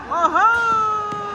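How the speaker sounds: sudden high yelp; excited yelp. Real, not acted. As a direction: yelp out in surprise. Crowd reaction to a play.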